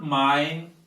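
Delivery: drawn-out 'mine', rhyming with 'nine'; wrong ending. Shown as a demonstration. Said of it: "It is not".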